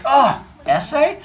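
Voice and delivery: put-on high, slow whining kid voice; whiny kid. Teacher voices Ricardo guessing his penalty, high slow whine. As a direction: groan it like a bored child. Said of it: "And he's like".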